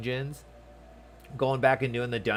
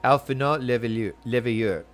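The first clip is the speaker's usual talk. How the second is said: French accent attempt; slower than usual. Shown as a demonstration. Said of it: "it's hard".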